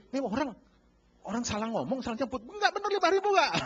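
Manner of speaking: astonished vendor who thinks the buyer misspoke; surprised vendor. Retold or imitated. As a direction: sound like you can't believe your ears. Vendor's surprised reaction retold.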